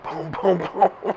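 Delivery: imitated banging. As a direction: voice the pounding through a chuckle. Mimes banging on locked door.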